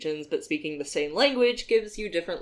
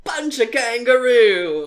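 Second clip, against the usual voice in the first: mock slogan; 6 semitones higher, 9 dB louder, slower than usual. Mock Australian motto.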